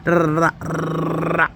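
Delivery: rattling off nonsense syllables fast; fast old talk. Shown as a demonstration. Showing viewers how she used to talk, fast nonsense syllables. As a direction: mimic her old rapid chatter. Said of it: "if you look at my old videos".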